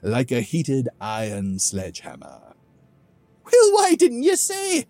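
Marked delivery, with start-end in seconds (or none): 3.5-4.8 drip sarcasm at the absurd request; sarcastic. Acted. Grog mocking Theethum's mountain plan, loud sarcastic disbelief. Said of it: "I'm sensing a little sarcasm".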